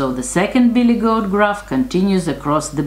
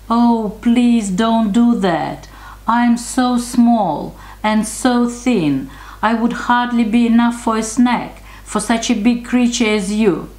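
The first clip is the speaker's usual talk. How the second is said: brave little goat; 7 semitones higher than usual. A narrator's reading. Frightened youngest goat begs the troll, high brave plea. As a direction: plead in a tiny high goat voice. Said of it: "replied bravely".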